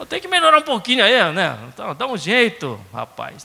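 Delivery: high start, quick informal nudge easing off; lightly voiced Cearense Jesus. Jesus urging a disciple to improve, casual Cearense nudge. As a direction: lightly act a chummy Cearense, no rebuke. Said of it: "Jesus cearense".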